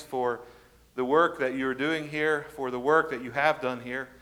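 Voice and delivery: measured, subdued public prayer; spoken prayer. Real, not acted. Pastor thanking God before his congregation, praying.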